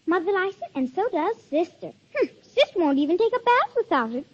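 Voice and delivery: put-on a child bursting with pride, pitch climbing; excited child pitch. Child ad read, building excitement.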